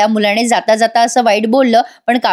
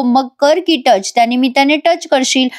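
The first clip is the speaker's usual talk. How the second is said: insolent. Retold or imitated. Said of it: "उद्धटसारखा बोलतो". (हलकासा उद्धट, सावकाश टोमणा)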